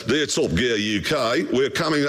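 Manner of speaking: a light mock French accent reading the letter; a hint of French accent, half-hearted. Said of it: "why am I doing this in a French accent?".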